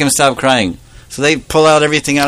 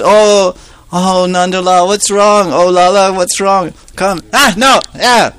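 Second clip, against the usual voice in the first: mother soothing; 8 semitones higher than usual. Acted. Mother soothing crying baby.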